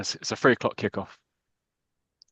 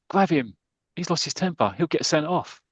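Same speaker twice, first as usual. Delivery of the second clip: mildly acted alarm, pitched up; urgent warning; 6 semitones higher than usual. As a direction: call out to teammates to hold him back. Tommy calls to restrain angry teammate.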